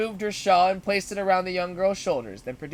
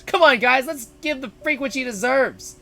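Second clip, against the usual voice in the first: bully rallying; 6 semitones higher, 6 dB louder than usual. Acted. Bully rallies cohorts.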